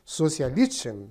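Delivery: Sozialisten sounded out slowly in German; tentative German. Shown as a demonstration. Teacher tries the German word for the class, slowly. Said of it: "não sei se, como seria a pronúncia".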